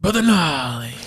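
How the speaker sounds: imitating a friend's Louisiana accent; Doctor B impersonation. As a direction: lift the name into a Louisiana accent. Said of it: "There it is. Yeah, a little bit".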